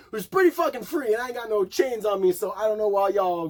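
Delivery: high, forceful defiance; cocky rant; defiant. Real, not acted. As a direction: rant with attitude.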